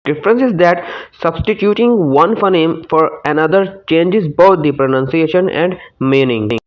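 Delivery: reads the English answer out slowly, word by word; slow textbook reading. Shown as a demonstration. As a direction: dictate it slowly to the class. (धीमी आवाज़ में पाठ पढ़ना)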